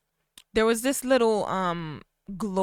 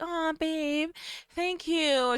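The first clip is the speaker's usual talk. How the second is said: mock-gushy "aw", pitched high; higher, sappy lovestruck thanks; gushing gratitude; 7 semitones higher, 3 dB quieter, much slower than usual. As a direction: coo it high like a smitten girlfriend. Acting sappy grateful Arabella.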